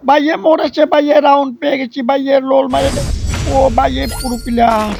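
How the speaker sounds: loud, high whoop over the kill; excited cheer. Real, not acted. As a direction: celebrate the win at full voice. Kill celebration in gameplay. (উত্তেজিত চিৎকার)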